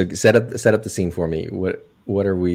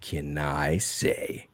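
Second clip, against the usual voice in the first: movie trailer voice; 2 semitones lower than usual. Acted. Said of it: "I have to do this one in the trailer voice".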